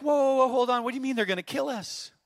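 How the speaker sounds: bristle, playfully offended; dad taking offence at his son; offended surprise. Retold or imitated. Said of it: "I immediately got totally offended".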